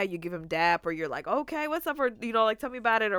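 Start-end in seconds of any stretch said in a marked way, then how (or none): 1.3-3.1 mock eager buddy. Acting out guys egging friend on.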